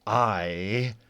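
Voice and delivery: slow, deliberate and softening; a father's measured praise, dropping to a whisper; slow proud father. Acted. Father praising son in character.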